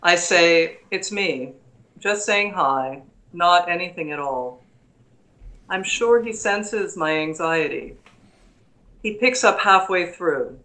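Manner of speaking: calm, measured recital of a sonnet; poem reading. Acted. Reads her title poem.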